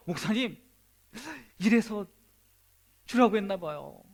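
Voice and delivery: a touch of happy, eager telling; laughing happily. Acted. A believer happily telling his pastor the good news, mildly excited. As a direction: share the good news gladly. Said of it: "막 웃으면서 막 얘기하는 거예요".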